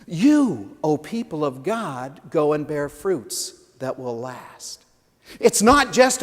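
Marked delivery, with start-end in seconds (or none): 0.1-4.8 measured, open command to the people; voicing Jesus' command. Pastor giving Jesus' charge to the church, measured.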